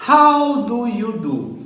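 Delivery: How do you do? said very slowly, high on How, then falling; slow model phrase. Shown as a demonstration. Teacher modelling a greeting for students, slow and clear. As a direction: spell it out slowly for the class.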